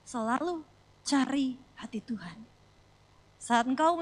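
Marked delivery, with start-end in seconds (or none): 0.1-2.5 slow, breathy whisper; whispered exhortation. Acted. Preacher whispers the key line to the congregation. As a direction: whisper the line close to the mic.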